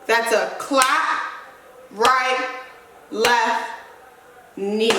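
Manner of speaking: slowed down, each move spaced out; walk the class through it slowly; slow breakdown. Shown as a demonstration. Teacher breaking down the moves for the class, slowly.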